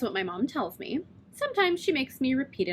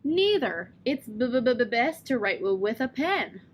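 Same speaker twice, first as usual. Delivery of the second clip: stuttered punchline; slower than usual. Retold or imitated. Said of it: "laughed at my punchline".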